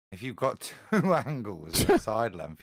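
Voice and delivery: laughing mid-sentence; a real laugh breaking into the explanation. Real, not acted. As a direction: talk on through a laugh. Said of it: "that's why the speaker's laughing".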